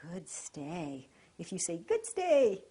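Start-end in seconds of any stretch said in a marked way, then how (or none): 0.1-1.1 soft, low, calm good stay; calm praise. Shown as a demonstration. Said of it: "keep your voice nice and calm". 1.8-2.6 high, loud excited Good stay; overexcited Good stay; excited praise. Shown as a demonstration. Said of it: "you might get the dog up".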